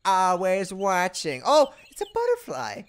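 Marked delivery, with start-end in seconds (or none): 0.0-1.4 slow, soft sinister mantis voice; hushed slow spooky watcher; creepy watcher. Retold or imitated. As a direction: menace it out slowly and quietly. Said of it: "He's like".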